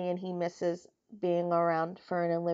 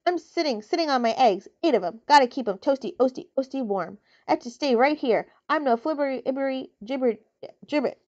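a fussy goose clucking over her eggs; 3 semitones higher, 4 dB louder than usual. Acted. Goose voice, repeated words.

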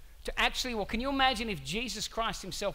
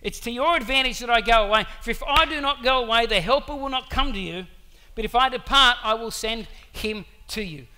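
loud proclamation; 3 semitones higher, 10 dB louder than usual. Retold or imitated. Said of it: "And he says".

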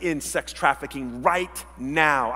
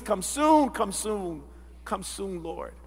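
plea fading softer; pleading prayer; 3 dB quieter, slower than usual. Acted. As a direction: sigh out a helpless plea, trailing softer. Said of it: "they just can't help but say".

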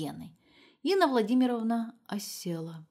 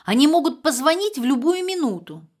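much higher and louder frantic mother; frantic shout; 8 semitones higher, 10 dB louder than usual. A narrator's reading. Mother shouting that kidnappers may call. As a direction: shout it in a panic.

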